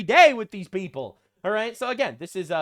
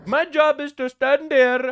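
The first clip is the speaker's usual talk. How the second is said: slow, louder mock South Asian accent; deadpan parody of the cop; 6 semitones higher, 6 dB louder than usual. Mocking the cop's job, slow mock accent. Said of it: "my Canadian accent".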